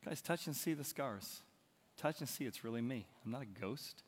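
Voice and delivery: soft reassuring Jesus. Acted. Jesus shows his scars.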